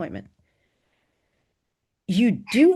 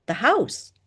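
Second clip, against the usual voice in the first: "The house" said precisely, higher; 6 semitones higher than usual. A narrator's reading. Student queries which house is meant, "The house" precise. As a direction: pronounce "The house" with pointed precision. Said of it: "she said with precision".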